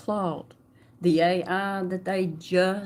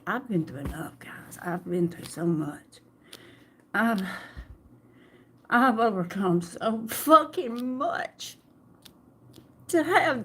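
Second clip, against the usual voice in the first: emotional. Real, not acted. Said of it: "getting emotional again".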